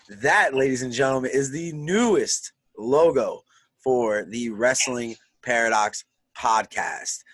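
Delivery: slow, drawn-out showman announcement; grand slow unveiling; announcer. Acted. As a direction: present it like a ring announcer. Announcing new logo.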